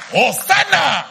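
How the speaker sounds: a praise shout from the congregation; shouted Hosanna. Shown as a demonstration. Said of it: "If your duty is to shout".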